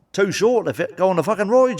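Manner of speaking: incredulous rant. Retold or imitated. Ranting about Japanese Disneyland.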